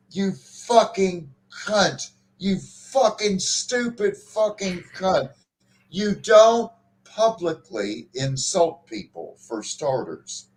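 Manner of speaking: slow, drawn-out mock tirade; lightly voiced insufferable British man; imitating ranting British guy. Mimicking the streamer who insulted a chatter, mock tirade. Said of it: "this guy's like".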